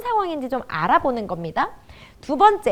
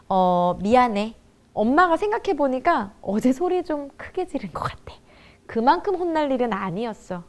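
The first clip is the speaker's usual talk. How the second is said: reflective apology. Acted. Mother apologising to child for yelling, reflective and sincere. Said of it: "돌아보고 말해줘야 되더라고요".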